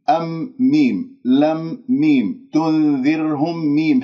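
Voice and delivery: slow words, each final م fully sounded; clear meems. Shown as a demonstration. Teacher makes students hear each one, clearly sounded meems. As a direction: close firmly on the م of "أم، لم، تنذرهم". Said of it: "هذه كلها ميمات مظهرة يجب أن أسمعها".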